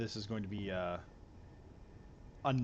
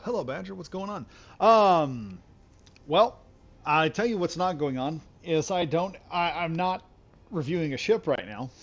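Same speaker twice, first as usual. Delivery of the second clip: excited streamer; 6 semitones higher, 8 dB louder than usual. Real, not acted. Greets chat excitedly, loud.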